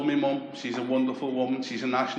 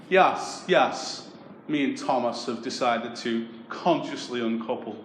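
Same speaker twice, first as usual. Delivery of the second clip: put-on posh girl; slower than usual. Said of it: "most middle-class breakup of my life".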